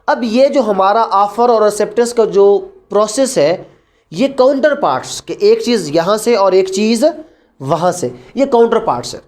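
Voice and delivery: usual speaking voice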